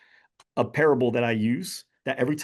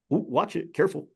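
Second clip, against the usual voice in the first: mock pointed warning, pitched higher; passive-aggressive warning; 5 semitones higher than usual. Man at the DMV hinting at the mom, passive-aggressive. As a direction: drop a hint without confronting. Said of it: "passive-aggressive sounds".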